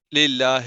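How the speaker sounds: للہ ending in a vague e, lillahe; majhool mispronunciation. Shown as a demonstration. Teacher imitating a faulty reader, majhool e ending on للہ. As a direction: blur the final i of للہ into e. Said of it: "مجہول ہے".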